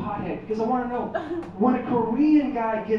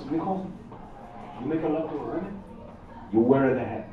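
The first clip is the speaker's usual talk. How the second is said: put-on Mexican dad accent; 7 semitones lower, 5 dB quieter than usual. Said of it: "speaks with a wicked accent".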